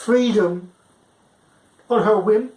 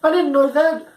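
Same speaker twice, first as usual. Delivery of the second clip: rising high incredulity; stunned; 8 semitones higher than usual. Retold or imitated. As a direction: caught completely off guard. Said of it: "I'm like".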